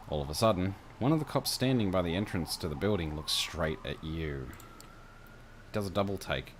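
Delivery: measured second-person game master narration; scene-setting narration. A narrator's reading.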